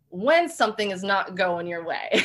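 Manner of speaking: says it through a laugh, half rueful. Real, not acted. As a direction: let the laugh leak into the words. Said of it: "let's just put it lightly".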